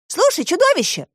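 put-on high girl's voice, calling out; Alisa calling out. A narrator's reading. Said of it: "воскликнула Алиса". (высокий девичий окрик)

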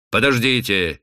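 sudden, sharp command; brisk, firm interjection; sharp interruption. Acted. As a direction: cut in abruptly. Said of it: "резко перебил он".

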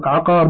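عقار with a after ع; fatha on ayn. Shown as a demonstration. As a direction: say عقار as 'aqar. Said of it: "بفتح العين".

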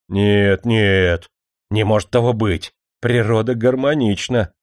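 loud, insistent protest. Acted. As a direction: push back hard. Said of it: "запротестовал актёр". (горячо протестуя)

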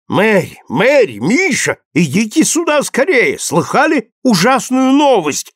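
calling across the room, high and urgent; excited call. A narrator's reading. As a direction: rush them over with alarming news. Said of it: "взволнованный голос".

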